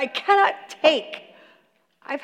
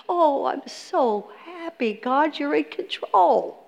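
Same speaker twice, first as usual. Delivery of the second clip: mock contentment; 5 dB quieter, slower than usual. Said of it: "He does not say that".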